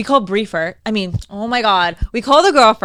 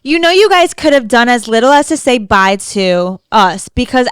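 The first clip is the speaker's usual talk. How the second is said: louder, indignant complaint; reading her angry texts; 3 semitones higher, 5 dB louder than usual. Retold or imitated. Voicing the girl's angry texts, loud and indignant. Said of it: "She's like".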